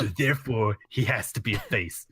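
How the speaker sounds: Triple H impression. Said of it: "That is kind of a good Triple H".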